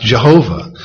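Jehovah as juh-HO-vah; pronounced Jehovah. Shown as a demonstration. Giving listeners another proposed pronunciation, Jehovah as juh-HO-vah. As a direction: say Jehovah in three syllables. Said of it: "Some say it should be pronounced".

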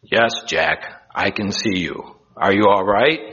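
a hint of God answering calmly; lightly voiced Lord. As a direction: answer evenly, as a voice from above. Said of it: "I am the Lord".

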